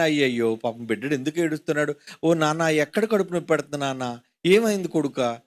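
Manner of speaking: a hint of a worried parent fussing; mock fussing parent. Parent soothing a crying baby, mock-tender and soft. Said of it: "మనం అనుకుంటాం కదా".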